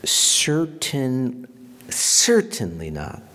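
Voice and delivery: firm and loud, a flat refusal; emphatic. Retold or imitated. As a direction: stamp out the idea, loud and final. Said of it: "he says that emphatically".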